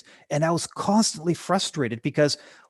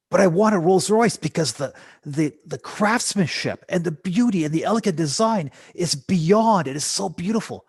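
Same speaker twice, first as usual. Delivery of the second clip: higher, louder, rapt gushing over the car; gushing Rolls admirer; 4 semitones higher, 3 dB louder than usual. Retold or imitated. Imagined buyer swooning over a Rolls Royce, gushing. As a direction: dreamily rave about its beauty. Voicing someone craving a Rolls.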